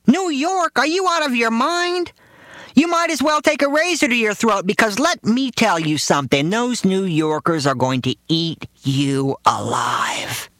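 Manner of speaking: very high, horrified father voice; father warning son against moving to New York; alarmed father. Retold or imitated. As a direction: blurt it in a high panicky father voice. Father's campaign of terror.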